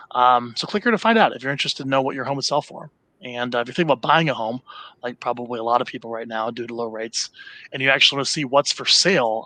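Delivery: calm, even email read-aloud; soothing voice. Shown as a demonstration. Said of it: "come in your soothing voice".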